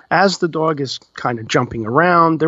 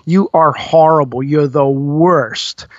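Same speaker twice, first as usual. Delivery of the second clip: angry wife; slower than usual. Retold or imitated. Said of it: "onslaught of the gentleman's wife".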